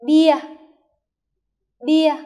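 "Bia" called out loud and high; model pronunciation. Shown as a demonstration. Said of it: "Lắng nghe cô phát âm". (phát âm mẫu "Bia" to, rõ)

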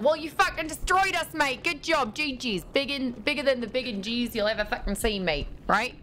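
put-on London-Aussie accent. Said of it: "trying to do a London accent. As well as an Aussie".

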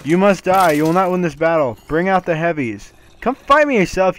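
loud high mock villain taunt; hammed-up evil boss. Voicing the boss taunting player.

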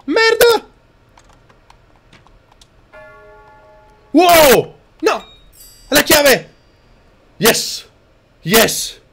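high, very loud gamer yells; real shouting. Real, not acted. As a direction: yell each outburst at the top of your voice. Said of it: "non dovevo urlare". (urla a squarciagola)

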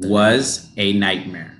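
was a nightmare with was stressed. Shown as a demonstration. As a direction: lean on was. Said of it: "There's no S".

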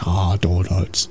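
slow lazy cartoon dad drawl; Homer Simpson. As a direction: drag it out like Homer dreaming.

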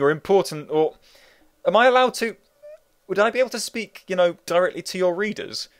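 lightly voiced nervous character. Character talks to the author.

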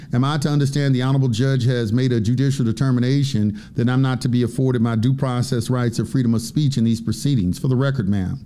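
calm, measured courtroom reply. Retold or imitated. Defendant formally questioning the judge's ruling, very calmly. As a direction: retell a composed, formal challenge to a judge. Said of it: "I said it very calm, calmly".

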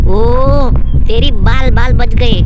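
loud relieved yelling after escaping; panicked escape shout. Real, not acted. Fleeing uncle, shouting.

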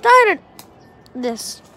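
high, loud frustrated cry; fed-up effort shout; frustrated yell. Real, not acted. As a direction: let it burst out while throwing. Frustrated throws.

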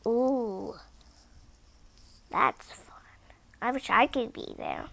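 real whisper, a little wistful; storyteller whispering an aside about the party; hushed aside. Real, not acted. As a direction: breathe it softly to the listener. Reader's hushed aside to listener.

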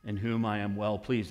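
very slow, solemn declaration; a slow, stately, lightly voiced Father; voice of God. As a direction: proclaim it with grave authority. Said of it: "hear the voice of his Father say".

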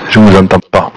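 radio-filtered pilot voice; over a cockpit radio; pilot cockpit headset. Real, not acted. Pilot radio check with tower.

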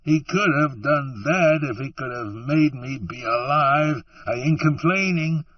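pushing the words out between sobs; through tears. Acted. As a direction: Nort crying to Allie about God's gift. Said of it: "he said through the tears".

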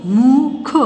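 मुख drawn out sound by sound; syllable by syllable. Shown as a demonstration. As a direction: stretch मुख into separate slow sounds. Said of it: "properly बोलना है". (मुख को तोड़-तोड़ कर)

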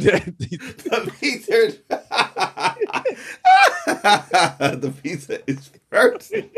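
a mock Italian whine, laughing through it; mock Italian complaint. Friend mocking a complaint about frozen pizza, laughing slow mock whine. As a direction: drawl it slowly, cracking up. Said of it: "Who's complaining like that?".

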